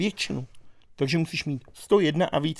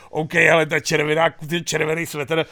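mock exasperated viewer; 3 semitones higher, 8 dB louder than usual. Viewer reacting to Hamáček's red sweater, mock exasperation. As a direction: act out a loud, fed-up reaction. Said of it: "a ty na něj koukáš a říkáš si".

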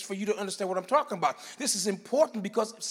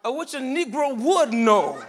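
slow, loud, laughing dare; street defiance; 3 semitones higher, 6 dB louder, slower than usual. Acted. Preacher voicing street Greek defiance, laughing. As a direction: dare them to try it. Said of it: "in street Greek".

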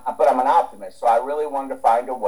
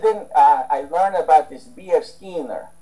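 put-on Russian accent; 4 semitones higher than usual. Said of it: "in his Russian accent".

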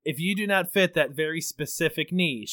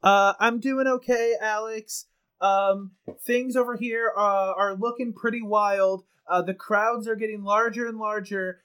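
serious on-the-ground correspondent; field reporter voice; 2 semitones higher than usual. Acted. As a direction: report live from the scene. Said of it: "full news anchor voice".

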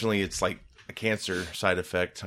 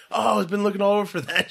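put-on high excited girl voice; 10 semitones higher than usual. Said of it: "some girl came by".

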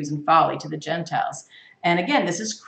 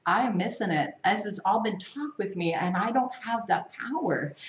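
quiet prayer; 6 dB quieter than usual. Retold or imitated. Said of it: "you say".

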